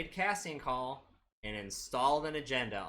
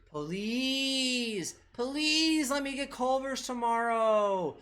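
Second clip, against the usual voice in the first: put-on slow, high Minnesota accent; drawn-out Minnesota accent prayer; 10 semitones higher, 4 dB louder, much slower than usual. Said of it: "I just threw in a Minnesota accent".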